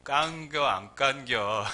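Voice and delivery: very slow Chungcheong accent; Chungcheong dialect. Shown as a demonstration. Preacher shrinks the tongue twister into slow Chungcheong accent. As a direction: drawl it like a Chungcheong local. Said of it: "충청도".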